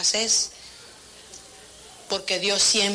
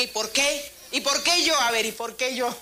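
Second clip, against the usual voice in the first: mock protest; 3 semitones higher than usual. Acts believer demanding explanation from God.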